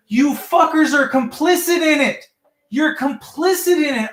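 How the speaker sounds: high-pitched, indignant accusing; retold angry accusation. Caller accusing dispatch of being complicit, retold angry accusation.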